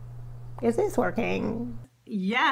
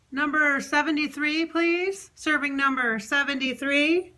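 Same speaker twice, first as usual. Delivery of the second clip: mock counter clerk; 4 semitones higher than usual. Calling out a ticket number.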